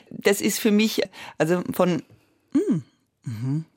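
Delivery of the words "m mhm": demonstrated hum. Shown as a demonstration. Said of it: "ausdrücken mit diesem M".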